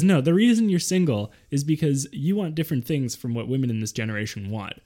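halting Walken cadence with odd pauses; Christopher Walken impression. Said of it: "Is your mom Christopher Walken".

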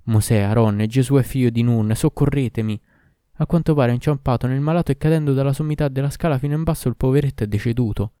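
loud invocation for help; crying out. A narrator's reading. Doctor beside the fallen body begs the prophets' help, crying out. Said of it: "gridò".

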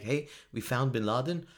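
halting, hesitant mock statesman with lots of ums; Obama. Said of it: "Oh, God, I can't do Obama".

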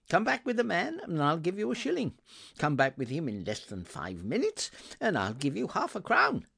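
put-on high, eager, loud old gentleman; excited Scrooge. Scrooge promising the boy a reward, excitedly urgent. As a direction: send the boy off with mounting excitement.

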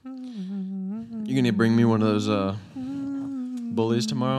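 whiny high slow beg; drawn-out childish plea; high pleading voice. Pretend. Begging friend for a Red Bull.

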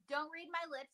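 ventriloquist, lips kept still; talking with mouth closed. Shown as a demonstration. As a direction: say it without moving your lips. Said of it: "don't move your".

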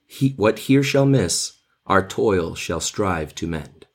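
measured, dramatic reading of verse; poem reading. Acted. Teacher reading the prologue to the class, recited verse. Reads the Romeo and Juliet prologue.

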